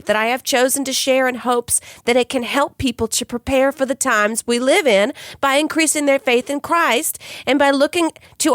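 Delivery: put-on reading a quote in a light Southern accent. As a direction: read it like a Southern church lady. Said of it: "your Southern accent came out there".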